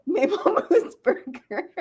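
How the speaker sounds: slow, amused repeat; laughing. Real, not acted. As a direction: savor it through a laugh.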